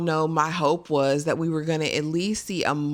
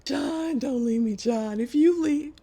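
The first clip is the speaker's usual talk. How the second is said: high, pleading cry to a husband; a wife on her knees begging her husband, high and desperate; 10 semitones higher than usual. Retold or imitated. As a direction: beg him not to go, pitched up high. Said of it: "this lady dropped to her knees".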